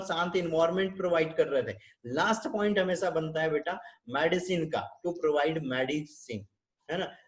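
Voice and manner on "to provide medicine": very slow and a little soft; drawn out word by word; slow dictation. Shown as a demonstration. Teacher dictating the last point, slow and soft. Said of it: "teacher dictating care plan".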